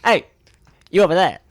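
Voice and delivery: hammed-up hero hailing a villain; mock hero call. Joining the mock cartoon, laughing call-out.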